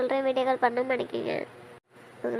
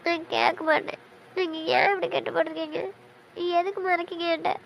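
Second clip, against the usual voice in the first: tearful. Acted. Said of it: "பார்த்தோன்னே அழுதல்ல?".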